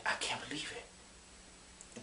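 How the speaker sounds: slow, hushed whisper; inner-thought whisper. Retold or imitated. Imagined listener thinks to himself in disbelief, slow whisper. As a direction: whisper it slowly as a private thought. Acts thought inside one's head.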